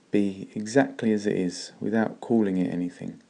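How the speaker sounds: usual speaking voice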